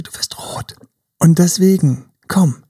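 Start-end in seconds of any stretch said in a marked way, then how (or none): 0.0-0.8 fast tonlos geflüstert, ganz leise; flüstere es, als wäre es peinlich; whisper. Shown as a demonstration. Listing signs of insecurity. (tonloses Flüstern)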